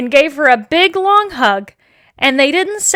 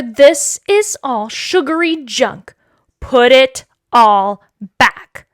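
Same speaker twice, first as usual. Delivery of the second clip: stern father; slower than usual. Acted. Father refusing the junk food.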